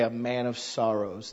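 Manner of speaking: soft and low: A man of sorrows; reverent, sincere. Shown as a demonstration. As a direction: say it with quiet reverence. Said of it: "So there we say".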